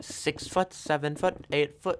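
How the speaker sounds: mock high silly voice on the sizes; joking that he was eight foot tall. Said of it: "I'm kidding".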